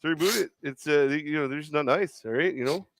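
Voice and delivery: put-on overly polite Canadian accent doing Steve Nash. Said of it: "just one generic Canadian accent".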